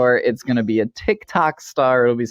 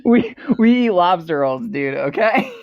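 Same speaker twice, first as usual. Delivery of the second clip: a lightly faked Boston accent, a touch higher; fake Boston accent; 6 semitones higher than usual. Bragging about New England food in a fake Boston accent. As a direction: push a half-hearted Boston twang on lobster rolls. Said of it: "I can't even fake one".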